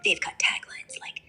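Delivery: put-on light German accent; English with German-accented consonants. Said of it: "I can switch to a German accent".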